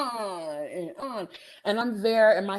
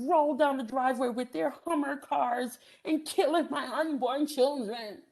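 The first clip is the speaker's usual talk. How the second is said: mock crying neighbor; 5 semitones higher than usual. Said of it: "She starts crying".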